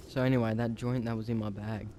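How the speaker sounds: talking through hiccups; hiccuping. Real, not acted. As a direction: hiccup breaking the words. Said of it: "Sorry, I'm, like, hiccuping".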